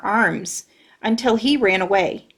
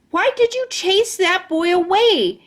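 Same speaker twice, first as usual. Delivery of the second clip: high, sharp angry scolding; angry complaint; 9 semitones higher than usual. Acted. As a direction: blame them for ruining it. Lucille angry at rescuers.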